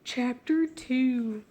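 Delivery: slow, drawn-out storyteller voice; dramatic narrator voice. Acted. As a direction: announce it like a spooky tale. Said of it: "Why am I doing that voice?".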